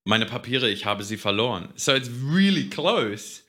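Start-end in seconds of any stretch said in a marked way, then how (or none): 0.0-1.7 German said correctly; native-style German line; proper German. Shown as a demonstration. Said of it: "How should he have said it then?".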